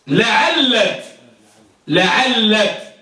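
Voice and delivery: لعلت said la-ʿal-lat, closing on t; teacher's careful model of لعلت; final taa added. Shown as a demonstration. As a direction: end لعلت on a clear t after the doubled l. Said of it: "ونزيدها التاء في آخرها".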